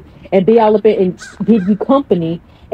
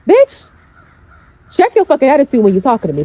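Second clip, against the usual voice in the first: angry outburst; 4 semitones higher than usual. Retold or imitated. To the girl on the phone, an indignant high outburst. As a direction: cut her off hard and fast. Snapping back at rude girlfriend.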